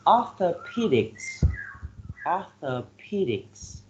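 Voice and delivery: orthopedics with the stress on PE; stress third syllable. Shown as a demonstration. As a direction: say orthopedics as or-tho-PE-dics. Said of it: "the third syllable receives the stress".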